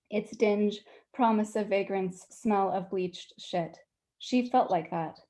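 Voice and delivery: measured, deliberate prose reading with pauses between images; author's unhurried public reading voice; literary story reading. A narrator's reading. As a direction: read it aloud to an audience, weighing each phrase. Reads own short story aloud.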